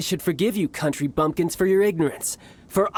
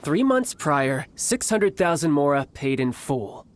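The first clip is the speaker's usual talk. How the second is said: slow, deliberate restatement; slow repeat; slower than usual. Acted. Childe repeating his price to the thugs, slow and deliberate. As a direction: spell it out patiently. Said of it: "I'll say it again".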